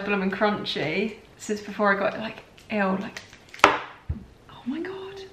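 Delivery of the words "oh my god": a much higher, slow, drawn-out oh my God; stunned at holding the feared chocolate bar; overwhelmed gasp. Real, not acted. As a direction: gasp it out in disbelief. Sees childhood favourite chocolate bar.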